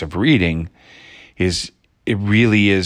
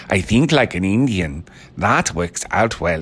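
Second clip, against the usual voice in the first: accidental Indian accent. Shown as a demonstration. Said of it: "it always becomes like Indian".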